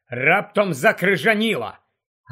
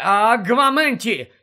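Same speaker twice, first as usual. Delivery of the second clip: exclaimed spell; 5 semitones higher, 4 dB louder than usual. Acted. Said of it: "знову вигукнув Гаррі".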